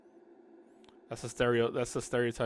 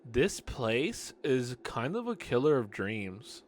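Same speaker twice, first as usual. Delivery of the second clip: regular guy voice; slower than usual. Acted. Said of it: "a regular guy voice".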